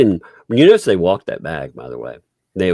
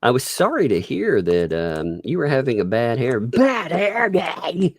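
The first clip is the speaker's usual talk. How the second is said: mock sympathetic; 5 semitones higher than usual.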